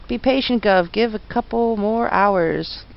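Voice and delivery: lightly voiced Cockney copper; a hint of a London bobby, unhurried; Cockney policeman. Policeman voiced in game dialogue.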